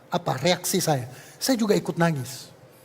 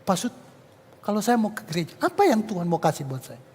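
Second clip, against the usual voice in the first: offhand. Retold or imitated. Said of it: "dengan entengnya".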